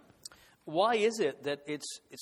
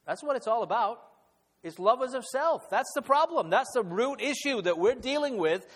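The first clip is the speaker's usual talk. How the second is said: much higher and louder, hammering each phrase home; forceful preaching climax; 7 semitones higher, 5 dB louder than usual. Real, not acted. Pastor tells the congregation self-love is the root problem, forceful climbing preaching. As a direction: preach it at full force, driving the point. Preacher hits the main point.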